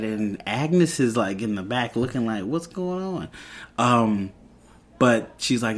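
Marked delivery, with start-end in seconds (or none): 2.4-3.3 high, hushed mock bewilderment; puzzled bystander. Agnes eavesdropping from the back, quietly puzzled. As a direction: imitate a baffled onlooker, softly.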